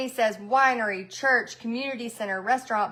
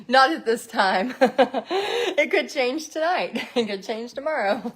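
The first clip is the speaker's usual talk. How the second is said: laughing through the words; chuckling while explaining. Real, not acted. Laughing about Facebook rule changes.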